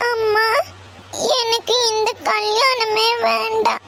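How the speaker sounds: tearful plea through sobs; crying. Acted. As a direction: beg her mother while crying, slowing down. Daughter breaks down to mother. (அழுதுகொண்டே கெஞ்சுதல்)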